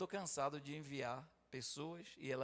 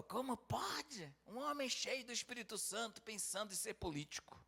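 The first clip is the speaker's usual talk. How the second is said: quoting his younger self; 8 semitones higher than usual. Retold or imitated. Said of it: "Você falou".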